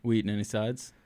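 slipped-in Southern accent, sides said like suds. Real, not acted. Host asking the guest about sides, in a slipped-in Southern accent. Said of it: "my real Southern accent coming out there".

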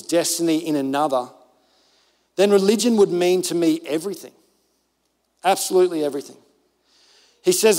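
firm, emphatic pulpit reading; forceful, measured recitation; declaimed quote reading. Real, not acted. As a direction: read the quotation out with conviction, weighing each phrase. Reads a quote aloud to congregation.

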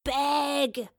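high, loud one-word shout; calling after her. A narrator's reading. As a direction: call out to someone leaving. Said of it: "Runcible called after her".

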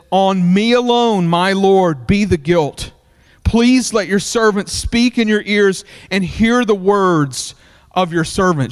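measured Bible reading voice; sermon scripture read. Acted. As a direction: read the verses to the congregation. Reads scripture passage aloud.

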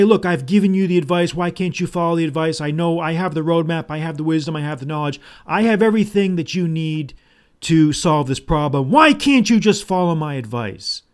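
insistent, exasperated mock complaint; exasperated leader. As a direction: plead the case like a fed-up adviser. Acts out a frustrated leader.

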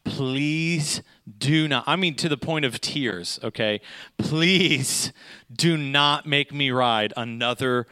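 slow, drawn-out begging plea; mock tearful plea, stretched out slow; pleading. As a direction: beg her like you're close to tears. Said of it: "begging and pleading with her".

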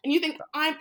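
outraged at a broke man's audacity; indignant outrage. Retold or imitated. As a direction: drag out each word in outrage. Outraged retelling, rising.

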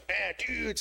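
casual dude. Acted. Beaver shrugs off sign.

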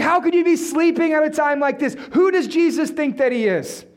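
hammed-up disbelieving complaint; mock indignation. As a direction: imitate an affronted, panicked disciple. Acted indignant disciples at sleeping Jesus.

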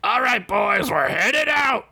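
rally the troops lightly; mild yell. Acted. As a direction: sergeant calls his men to move out. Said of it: "the sergeant yelled".

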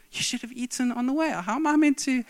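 indignant thought. Retold or imitated. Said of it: "but I'm thinking".

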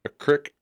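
creek said with short i, like crick. Shown as a demonstration. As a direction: say creek to rhyme with brick. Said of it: "You say creek or creek?".

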